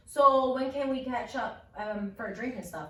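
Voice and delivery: smooth flirty guy. Retold or imitated. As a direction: slide in smoothly for a date. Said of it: "he's like".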